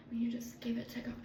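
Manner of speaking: whispered devotion. Real, not acted. Vlogger whispers about trusting God. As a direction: hush it reverently.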